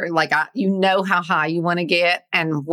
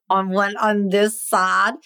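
stoned. Real, not acted. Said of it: "she's stoned".

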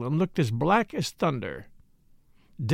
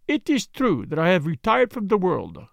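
put-on modest detective, lightly accented and measured; Poirot, courteous foreigner; 3 semitones higher than usual. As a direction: put on Poirot's polite, careful speech. Plays Poirot in the story.

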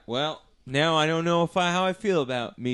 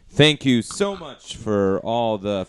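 impression; slower than usual. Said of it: "deviously impersonating me".

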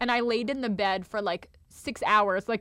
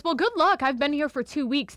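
a hint of the eerie roommate; roommate's warning; 5 semitones higher than usual. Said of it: "she goes".

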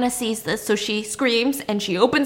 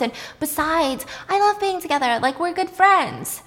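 lightly voiced pleading friend, higher; coaxing friend; 5 semitones higher than usual. Hannah urges Ellen to move in, higher coaxing voice. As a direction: coax lightly, pitched up. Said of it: "Hannah keeps telling Ellen".

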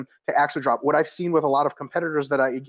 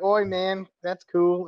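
higher-pitched, put-on Aussie accent; Australian accent; 4 semitones higher, much slower than usual. Joking customs officer greets his fist-fight visitor, mock Australian accent. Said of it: "that was an Australian accent".

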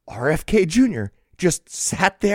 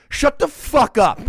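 higher, slow mock yell; emphatic, stretched-out mock heckle; retold yell; 8 semitones higher than usual. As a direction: yell it back at a heckler, half-hearted. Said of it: "stood up and yelled".

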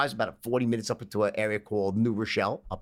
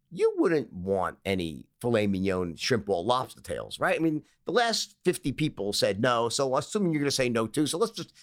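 deflated pitch. Retold or imitated. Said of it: "lost his state of certainty".

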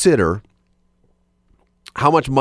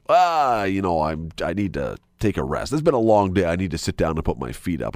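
tired excuse; 5 semitones lower than usual. Pretend. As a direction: make excuses like you're worn out.

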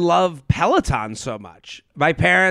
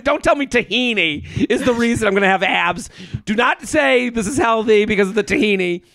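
mock rant; 5 semitones higher than usual. Real, not acted. Ranting about the tahini claim.

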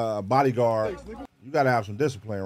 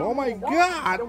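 shocked white onlooker; 12 semitones higher, much slower than usual. Retold or imitated. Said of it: "All them white people".

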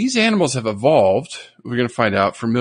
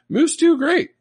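excited; 4 dB louder than usual. Real, not acted. Excited claim.

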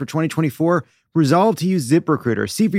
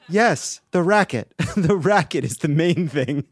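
laughing; slower than usual. Retold or imitated. Quoting monkey researcher.

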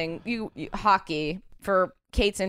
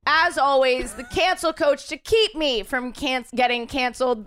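cancel coach voice; 5 semitones higher than usual. Pretend. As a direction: announce the cancel coach with more push. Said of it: "It's Kate Sisk".

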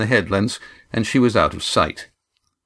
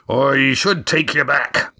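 slow, weighing each word; slowly; 5 semitones higher, slower than usual. A narrator's reading. Skipper weighing whether to send the boy home, slow. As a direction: think it through aloud. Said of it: "said Roaring Jack slowly".

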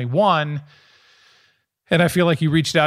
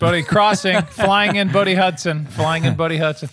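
mock announcer; 3 semitones higher than usual. Hamming up the son's entrance.

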